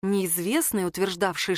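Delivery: ordinary delivery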